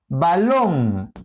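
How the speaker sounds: balón rising into a drawn-out final -lón; stress on LON. Shown as a demonstration. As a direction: lean on the last syllable of balón. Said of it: "acento en long". (balón, cargando la voz en la última sílaba)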